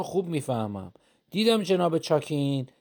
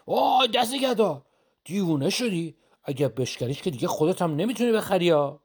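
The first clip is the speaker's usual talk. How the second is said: higher, slowed alarmed cry; 4 semitones higher than usual. Acted. Shopkeeper alarmed at the threat, higher and slowed. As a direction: gasp and plead him not to break it.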